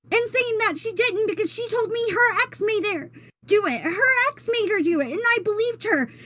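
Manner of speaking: a touch of crying while telling it; choked up. Real, not acted. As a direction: voice catching with tears. Tearful confession.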